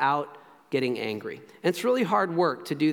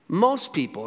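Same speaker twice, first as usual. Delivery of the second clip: "Most" pitched up and leaned on; stress on most. Real, not acted. Preacher qualifying his claim, emphatic stress on "Most". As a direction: punch "Most", then let "people" fall. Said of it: "and again, I emphasize most people".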